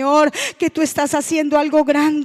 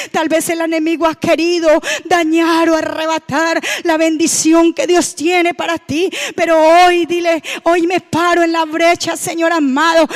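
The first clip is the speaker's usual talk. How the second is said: rising fervent declaration; 2 semitones higher, 4 dB louder than usual. Acted. Prayer climax, rising intensity.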